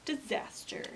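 ominous whisper. A narrator's reading. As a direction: breathe the word like a secret. Narrator whispers ominous word.

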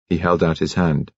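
ordinary delivery, nothing marked

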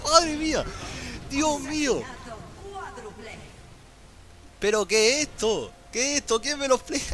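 very high, giddy cries of amazement; ecstatic disbelief. Real, not acted. Streamer marvelling at his one-versus-four play, giddy very high cries.

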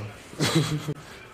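brief dismissive chuckle; short laugh. Real, not acted. Disputing that he is in the burbs, short laugh.

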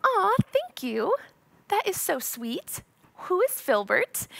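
high, slow, sweetly flattered. Retold or imitated. Flattered by her boyfriend, sweet high thanks. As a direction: gush like a flattered girlfriend. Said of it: "And I'm like".

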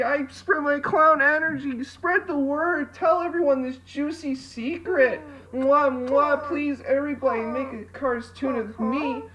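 a light, playful silly clown voice. Acted. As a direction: ham it up as a goofy clown. Clown persona spreading clown energy.

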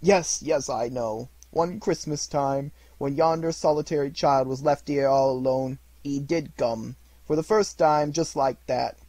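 high, loud, overjoyed rush of memories; between laughing and crying. A narrator's reading. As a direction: gush like a delighted child. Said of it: "voice between laughing and crying".

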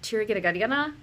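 "tiri kita ketika na" with English-accented consonants. Shown as a demonstration. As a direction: say the Hindi syllables with an English accent. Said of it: "with an English accent".

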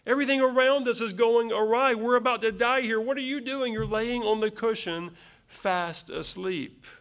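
frightened disciples berating a sleeping Jesus; exasperated rebuke. Acted. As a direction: scold the sleeping teacher in alarm. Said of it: "the rebuke in their voice".

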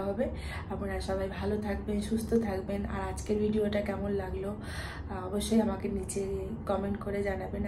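speaking softly. Real, not acted. Mother talking late at night, hushed so son stays asleep. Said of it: "আস্তে আস্তে কথা বলছি".

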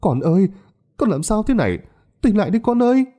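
put-on a mother crying out to her child; wailing mother. A narrator's reading. Mother wailing over dying child. (người mẹ gào khóc thảm thiết, giọng cao)

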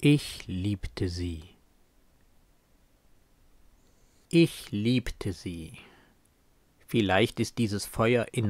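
langsam und verhalten rezitiert, leise auslaufend; tragischer Gedichtvortrag. Acted. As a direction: eine verlorene Liebe bitter und getragen vortragen. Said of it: "klingt seine Version deutlich tragischer". (tragisch, verhalten vorgetragen)

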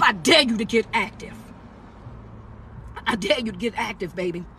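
talking with stitches in mouth; speaking gingerly around fresh stitches; after wisdom teeth. Real, not acted. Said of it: "I still got stitches in my mouth".

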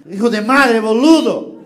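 loud Spanish cursing with a laugh; imitating an Argentine swear; Argentine insult. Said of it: "o próprio argentino".

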